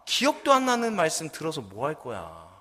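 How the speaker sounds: high-pitched, acted exasperated outburst; angrier son. Son scolds forgetful mother, acted high-pitched exasperation. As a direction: burst out at mother, then drag out the complaint. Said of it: "아들이 더 화가 나서".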